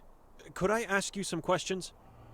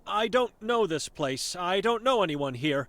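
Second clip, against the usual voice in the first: a hint of a stern old seer, guarded; wary old Vera sizing up a stranger; blind old woman; 7 semitones lower than usual.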